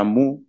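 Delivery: "mu" dicho como una sílaba coreana, "muu"; pronunciación coreana. Shown as a demonstration. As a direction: pronuncia "mu" a la coreana, con u plena. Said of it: "se pronuncia en coreano". ("mu" con pronunciación coreana)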